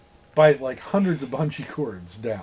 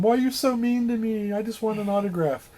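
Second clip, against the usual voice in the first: mock whiny scream; 7 semitones higher than usual. Fan pleading with his idol, mock wail. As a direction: whine it like a wounded fan. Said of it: "starts screaming back at him".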